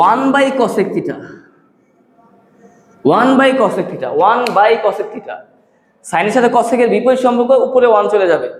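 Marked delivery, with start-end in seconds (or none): 0.1-5.4 very slow, each word spaced for copying; slow dictation. Shown as a demonstration. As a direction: spell it out slowly so students can write along. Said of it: "দেখো".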